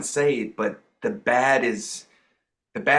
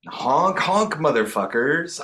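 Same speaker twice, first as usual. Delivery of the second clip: silly clown; 2 semitones higher than usual. Acted. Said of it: "the clown prince of fear".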